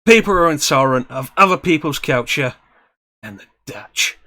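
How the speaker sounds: a touch of Michael Caine, building to the punchline; Michael Caine impression. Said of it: "let me just do a Michael Caine impression".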